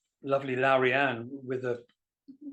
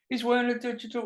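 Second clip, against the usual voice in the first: a hint of the young guy; 9 semitones higher, faster than usual. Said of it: "the guy's saying".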